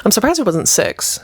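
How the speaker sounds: unvoiced whisper; whispered aside. Real, not acted. Aside comment.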